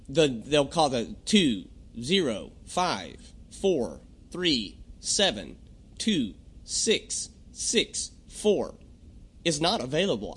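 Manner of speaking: slow, evenly spaced digits like an automated line; robotic number readout. Retold or imitated. Mimicking the automated voicemail to a caller. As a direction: read the number out like a phone robot. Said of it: "the ones that just call out your phone number".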